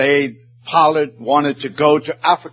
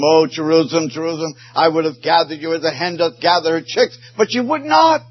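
fast, rising lament ending in a high cry; grieving prophet's lament; lamenting Jesus; 5 semitones higher, faster than usual. Acted. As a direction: plead over the city, then break high. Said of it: "He wept over Jerusalem".

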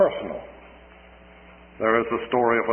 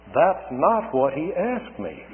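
pointed reply; 4 semitones higher, slower than usual. Retold or imitated. Wife's sober answer to her husband.

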